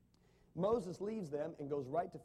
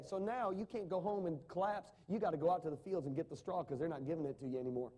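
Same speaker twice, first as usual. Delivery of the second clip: ordinary delivery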